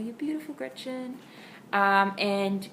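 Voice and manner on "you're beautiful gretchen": high, gentle "You're beautiful"; high praise to dog. Shown as a demonstration. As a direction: lift it up high and sweet for the dog. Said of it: "I'll do that to her across the room".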